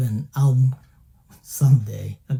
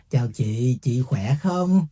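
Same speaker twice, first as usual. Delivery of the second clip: Southern Vietnamese accent; 2 semitones lower than usual. Shown as a demonstration. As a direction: say "Chào chị, chị khỏe không?" the Southern Vietnamese way. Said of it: "if I use Southern accent".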